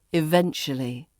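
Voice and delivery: "eventually" as ih-VENCH-uh-lee; reduced form. Shown as a demonstration. Teacher shows what it becomes, "eventually" shortened to ih-VENCH-uh-lee. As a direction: drop the "oo" from "eventually". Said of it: "Eventually becomes".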